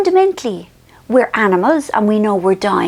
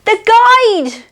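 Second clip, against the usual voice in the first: guide clarifying; 11 semitones higher, 5 dB louder than usual. Retold or imitated.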